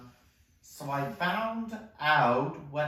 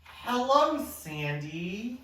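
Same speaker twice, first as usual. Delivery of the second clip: cooing at a dog; 6 semitones higher, slower than usual. Acted. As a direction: sing it up to a puppy. Greeting the dog Sandy.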